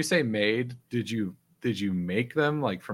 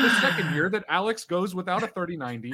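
newscaster voice; 7 semitones higher than usual. Pretend. Mock news report continues.

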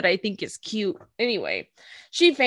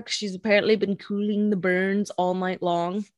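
a line that comes out sounding dirty by accident; accidental suggestive read; unintentionally suggestive; 3 semitones lower, 5 dB quieter than usual. Real, not acted. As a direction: innocent recap that lands as innuendo. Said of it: "the way you said that was really dirty".

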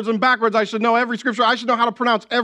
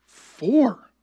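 put-on child voice. Son Otto voiced declaring.

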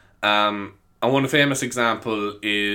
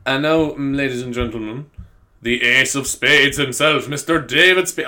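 announcer voice; 3 dB louder than usual. Acted. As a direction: introduce him like a showman. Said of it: "why do I try to be like that".

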